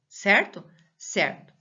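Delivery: ordinary delivery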